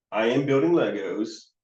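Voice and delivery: rising end on "Legos"; questioning tune. Shown as a demonstration. Kiddo's words echoed as a question, rising on "Legos". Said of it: "it comes across as a question".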